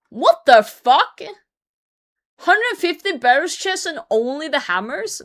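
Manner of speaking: stunned loud curse at the loot; shocked outburst. Real, not acted. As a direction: blurt it out in disbelief.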